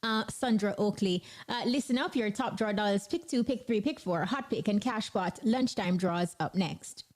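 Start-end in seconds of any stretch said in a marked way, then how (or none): 1.7-7.0 punchy lottery announcer patter; upbeat station promo read; radio promo read. Acted. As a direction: sell the draws like a DJ. Radio host reads lottery promo.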